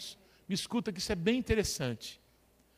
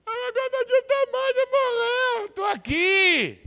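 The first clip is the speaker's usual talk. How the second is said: Maria weeping; 13 semitones higher, 8 dB louder than usual. Retold or imitated. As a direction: cry it out as the grieving sister. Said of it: "a Maria continuou chorando".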